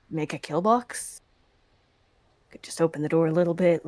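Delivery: ordinary talk, nothing marked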